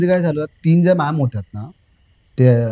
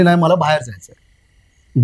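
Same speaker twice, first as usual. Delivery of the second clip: strange slow voice; slower than usual. Retold or imitated. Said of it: "ती म्हणली".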